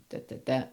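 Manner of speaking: da, da, da, first beat stressed; trochee rhythm. Shown as a demonstration. Teacher tapping out a trochaic line, strong first beat. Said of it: "you begin with the trochee".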